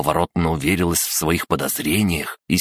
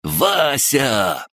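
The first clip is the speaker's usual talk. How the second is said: delighted shout; 8 semitones higher than usual. Acted. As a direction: bellow the name with glee. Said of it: "восторженно гаркнул".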